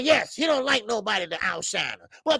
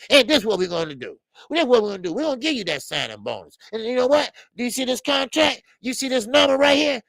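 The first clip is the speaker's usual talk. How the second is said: salesman promoter; 4 semitones higher, faster than usual. Retold or imitated. Floyd voiced pitching an offer.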